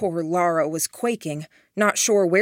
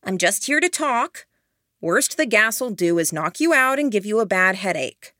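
higher, youthful, lightly voiced young man; young man's voice; 3 semitones higher than usual. Sylvester calls through the smoke, young voice. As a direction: sound young and easy. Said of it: "A young man's voice, not fully mature".

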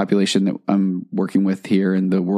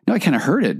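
knowing reply; 8 semitones higher, faster than usual. Retold or imitated. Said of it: "And she just said".

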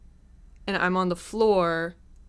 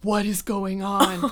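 slow, drawn-out alarmed question; imitating scared bewilderment; slower than usual. Frightened date watching her laugh, scared bewilderment. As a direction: stretch it out in mock horror. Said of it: "that just scared him even more".

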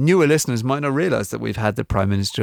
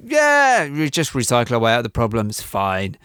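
offhand dismissal. Acted. Imagined politician shrugging off the recycling problem, mock dismissive. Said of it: "real in-hoff who was like".

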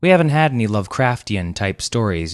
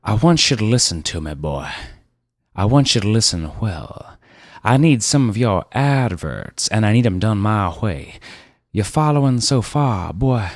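bossy car dealer; 3 semitones higher than usual. Acted. Car dealer Rivers laying down the law to the ad man, domineering. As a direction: talk down to the boy.

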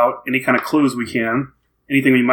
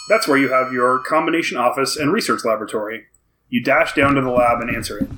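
story narration. Acted. Reads the game's story cards.

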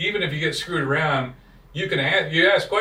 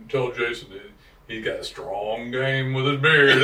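attempted Tennessee accent; 2 semitones lower than usual. Relaying Randy's beard compliment to Jason, loose Tennessee accent. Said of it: "I can't do the Tennessee accent".

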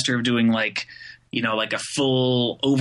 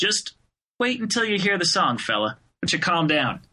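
mock condescending reply; 5 semitones higher than usual. His imagined reply.

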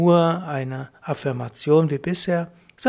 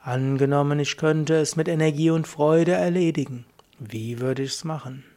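low voice. Shown as a demonstration. Asking yourself the miracle question, in a low voice. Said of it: "in einer tiefen Stimme fragst du dich".

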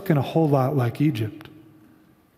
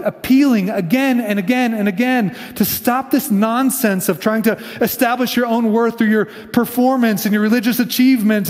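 Jesus's impassioned appeal; 5 semitones higher than usual. Retold or imitated. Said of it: "he says".

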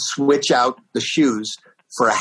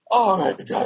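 lightly voiced gushing drunk, pitched up; obnoxious drunk fan; 7 semitones higher than usual. Planted fan meets his idol backstage, mildly drunken gushing. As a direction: imitate a drunk superfan, higher. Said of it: "be the most obnoxious, drunk fan".

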